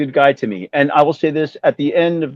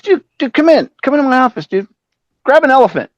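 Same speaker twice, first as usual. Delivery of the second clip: much higher, louder welcoming dude voice; imitating Vince; 11 semitones higher, 4 dB louder than usual. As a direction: invite him in like a grand rock-star host. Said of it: "he goes".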